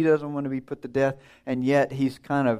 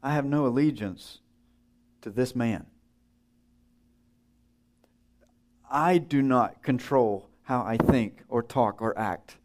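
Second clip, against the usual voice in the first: humble surrender. Retold or imitated. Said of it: "what we say about ourselves is".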